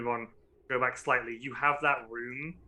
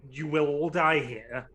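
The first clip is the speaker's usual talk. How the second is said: scary voice; 2 semitones higher, 6 dB louder, slower than usual. Acted. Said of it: "in a scary, elicit voice".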